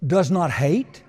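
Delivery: does not hate, stressed and loud. Shown as a demonstration. Preacher repeating the verse, pressing each word. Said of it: "that's what he says".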